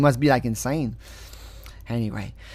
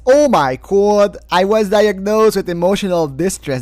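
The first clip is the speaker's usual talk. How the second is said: mock excited plaintiff; 5 semitones higher, 8 dB louder than usual. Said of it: "he says".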